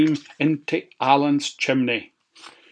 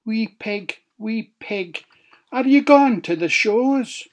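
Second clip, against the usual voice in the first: wolf voice; 8 semitones higher than usual. A narrator's reading. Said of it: "So the wolf said".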